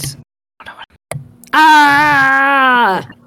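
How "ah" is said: high-pitched loud yelling. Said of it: "I'm gonna yell out".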